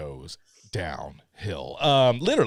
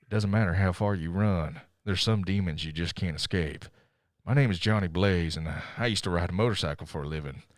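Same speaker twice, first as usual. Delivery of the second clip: lightly voiced Cage monologue, dramatic; a hint of brooding movie narrator; Nick Cage impression. Podcaster doing the Ghost Rider opening as Cage, lightly voiced. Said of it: "here's my best Nick Cage impression".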